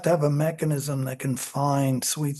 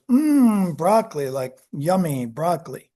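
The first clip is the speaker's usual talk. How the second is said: yummy delight. Retold or imitated. Experimenter acts liking broccoli.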